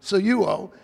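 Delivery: "soluo" repeated as so-YOO-oh, falling at the end; pronunciation demo. Shown as a demonstration. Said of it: "it's pronounced soluo".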